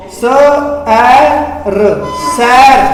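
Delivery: teacher blending सैर for the class; sounding out letters. Shown as a demonstration. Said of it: "उच्चारण क्या आएगा?". (अक्षर जोड़कर सैर ज़ोर से)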